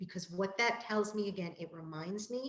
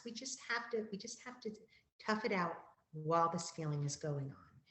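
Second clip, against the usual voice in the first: soothing. Shown as a demonstration. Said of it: "you tell the child".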